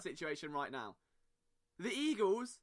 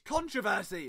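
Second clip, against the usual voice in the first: Controversy! in an American accent, stress first, CON-tro-ver-sy, with r sounded; a put-on American accent, CON-troversy with r; 3 dB louder than usual. Shown as a demonstration. Podcaster correcting himself to American accent, CON-troversy. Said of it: "There we go".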